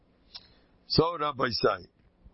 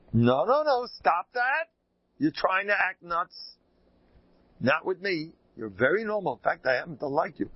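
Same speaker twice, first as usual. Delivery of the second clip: raised, high-pitched mock scolding; retold yelling; 5 semitones higher than usual. Rabbi to caller who acts crazy, high mock scold. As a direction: replay telling him off, pitched up. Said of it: "I keep yelling at him".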